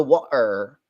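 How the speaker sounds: imitated British accent on water, T dropped; Andrew Tate accent. Streamer reading an article about underwater robots, imitated Andrew Tate accent. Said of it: "I was talking about the Andrew Tate freaking".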